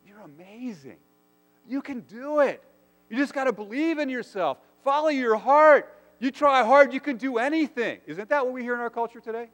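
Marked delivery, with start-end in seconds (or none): 0.1-8.0 much higher, louder pep-talk voice; hyped-up cheerleader. Retold or imitated. Culture cheering a doubter on, high and loud. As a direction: gush encouragement like a self-help guru. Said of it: "we hear the response is".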